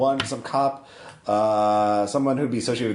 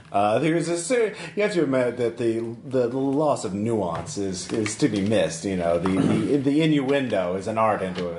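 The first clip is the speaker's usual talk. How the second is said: affected contact character. Acted.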